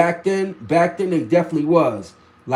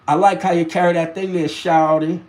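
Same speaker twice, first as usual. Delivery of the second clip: quick, understated Southern imitation; down south accent. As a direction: lightly quote it in a Southern accent. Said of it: "introductions to a down south accent".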